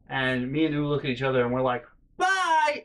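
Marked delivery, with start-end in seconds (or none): 2.2-2.8 high, bright mock farewell, much higher; sing-song goodbye. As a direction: chirp a cheeky bye and leave. Both leave their sister abruptly.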